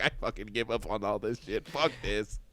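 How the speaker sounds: low, soft giving-up grumble; defeated mutter. Retold or imitated. Friend quitting on dating, low soft defeated grumble. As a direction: sink into mock defeat. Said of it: "the meat route where it's like".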